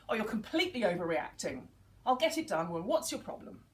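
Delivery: mock stroppy daughter; defensive daughter. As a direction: roll your eyes at the nagging. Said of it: "her response would be".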